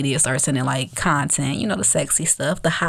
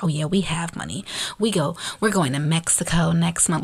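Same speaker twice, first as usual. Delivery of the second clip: snobby. Retold or imitated. Storyteller imitating a woman bragging about money and trips, snobby. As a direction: lightly imitate a snob showing off. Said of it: "she really said it all snobby".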